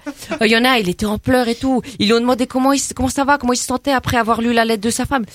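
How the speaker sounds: put-on brash teen girl from the estate, chatty and cocky; cheeky suburban girl. Comedy guest chatting to the radio host as a cocky suburban girl. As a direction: play a gossipy banlieue girl full of slang. Same character continues.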